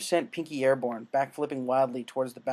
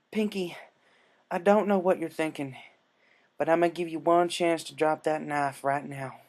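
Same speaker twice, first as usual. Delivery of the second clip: firm, lightly raised warning; Applejack warning; 3 semitones higher than usual. Acted. Applejack confronts Pinkie.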